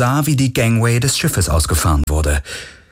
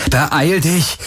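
higher, urgent hurry up; urgent call; 7 semitones higher than usual. Acted. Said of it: "rief Garland".

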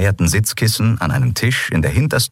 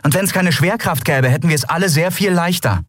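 high, biting sarcasm; captain sneering at Kero's remark; venomous sarcasm; 12 semitones higher than usual. A narrator's reading. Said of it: "sagte Endriel giftig".

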